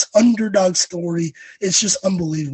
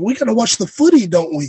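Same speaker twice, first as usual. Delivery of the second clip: put-on British accent; 3 semitones higher than usual. Telling how dad calls about watching soccer, imitating dad's British accent. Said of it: "My dad calls me speaking in a British accent".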